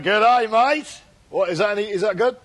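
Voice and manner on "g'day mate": mild Aussie accent, g'day drawn out; a light Australian greeting, rising on mate. Shown as a demonstration. Asked for his Australian, he gives a mild Aussie g'day. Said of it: "Give us a burst of your Antipodean Australian".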